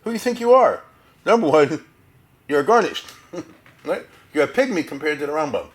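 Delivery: loud, high scolding with laughs breaking in; hammed-up outraged rebuke; blasting rebuke. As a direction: tear into him like an outraged elder, half laughing. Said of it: "replied by blasting Meir".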